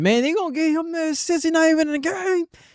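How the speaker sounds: fired-up, passionate, very high voice. Retelling another speaker's complaint: imitating someone saying it with passion. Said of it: "He said it with passion".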